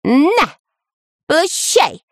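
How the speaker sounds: high, sudden cry; shouted out. A narrator's reading. Dyrka fires his slingshot, shouted out. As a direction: yelp it as you let fly. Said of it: "выкрикнул Дырка".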